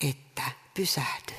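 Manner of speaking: hushed unvoiced whisper of conscience; whispered urge. Preacher voicing the heart's quiet prompt, whispered. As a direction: breathe it like an inner nudge. Inner voice urging to stop.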